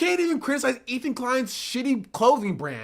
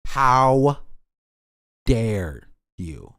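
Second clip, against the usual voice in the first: much lower, drawn-out how dare you; mock deep outraged voice; 9 semitones lower, 4 dB louder, much slower than usual. Mocking Ethan's reply to her, pompous deep outrage. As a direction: ham up a pompous scold. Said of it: "And she's like".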